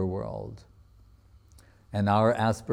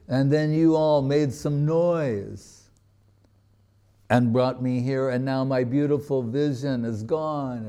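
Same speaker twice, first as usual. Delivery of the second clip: lamenting; 3 semitones higher than usual. Retold or imitated. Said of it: "And he's, like, crying".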